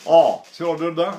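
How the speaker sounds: ordinary talk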